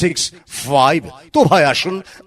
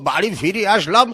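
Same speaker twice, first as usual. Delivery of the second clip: put-on old man voice; 4 semitones higher than usual. Skit old grandpa voice.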